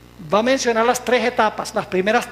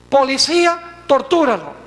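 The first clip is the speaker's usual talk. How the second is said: higher, louder call, then the order; church giving orders; 4 semitones higher, 4 dB louder than usual. Acted. Church ordering police to torture dissenters, mildly commanding. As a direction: lightly play an authority commanding its police. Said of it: "la iglesia decía".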